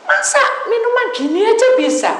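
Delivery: high, loud insisting voice; mock stubborn congregant. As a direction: play the stubborn caller pushing back. Pendeta memerankan jemaat yang ngotot. (suara jemaat ngotot tinggi)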